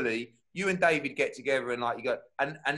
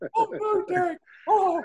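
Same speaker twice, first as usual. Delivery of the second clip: voice shooting very high into a loud squeak; 5 dB louder than usual. Retelling a face-off with the listener, imitating own voice going high. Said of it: "my voice has never gone so high".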